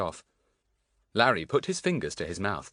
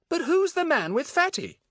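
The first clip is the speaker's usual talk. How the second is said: high-pitched, raised, puzzled question; 5 dB louder than usual. A narrator's reading. Pip asking his friends about a stranger, puzzled. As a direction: ask it high and loud, baffled.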